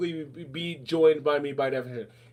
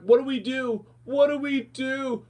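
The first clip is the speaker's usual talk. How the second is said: mock panic; 8 semitones higher, slower than usual. Mocking panicked people.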